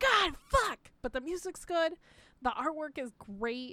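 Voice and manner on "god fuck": exasperated, frustrated yell, pitched very high. Retelling getting stuck in a hard game section: retelling own frustrated yelling.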